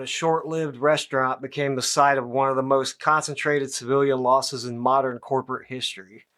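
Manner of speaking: grave documentary voiceover. Pretend. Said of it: "grave documentarian voiceover, calm and academic".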